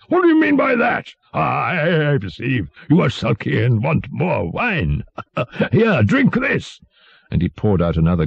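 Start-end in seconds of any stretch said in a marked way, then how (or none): 0.1-5.0 high-pitched, indignant royal accusation; fierce tyrant. A narrator's reading. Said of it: "cried the tyrant fiercely". 5.1-5.7 brief voiceless mocking chuckle; tyrant's short laugh. A narrator's reading. Tyrant mocks the sulky jester. 5.7-6.8 high, slow, drawn-out order; commanding tyrant. A narrator's reading. Tyrant forces drink on jester.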